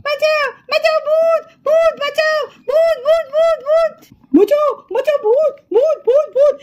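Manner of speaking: frightened cries for help; panicked screams. Acted. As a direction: scream and run from the ghost. Children flee screaming from ghost. (ভূত দেখে আতঙ্কে চিৎকার)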